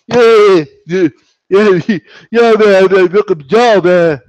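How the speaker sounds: loud, almost laughing yell; loud laughing disbelief. Real, not acted. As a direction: shout it through laughter. Laughing at Ortiz's broken jaw.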